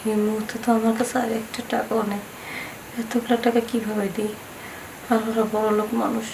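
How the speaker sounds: muttering. Acted. Debtor frets to herself about the money, muttering. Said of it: "কি বিড়বিড় করতেছো?".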